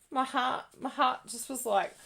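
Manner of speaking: ordinary talk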